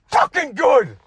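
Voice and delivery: mad. Retold or imitated. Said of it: "I was so mad".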